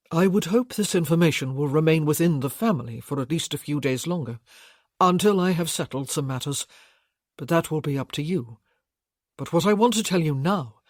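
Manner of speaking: steady bridegroom addressing the family; Gabriel voiced. Gabriel reveals his true name.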